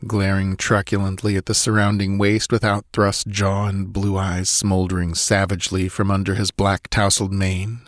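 ordinary delivery

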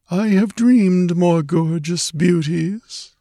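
high, slow, languid voice; dreamy murmur. A narrator's reading. Dreamy stranger admiring the girl, murmuring. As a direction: murmur it slowly as if half dreaming. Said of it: "he murmured".

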